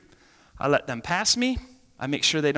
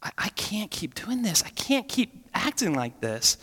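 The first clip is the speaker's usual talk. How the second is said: desperate prayer; 3 semitones higher than usual. Retold or imitated. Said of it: "remember praying and just saying".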